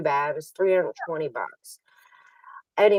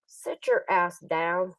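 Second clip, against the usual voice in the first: slow, drawn-out put-down; retold slow command; imitated cocky command; much slower than usual. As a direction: imitate the dude's order, stretched out. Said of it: "like that".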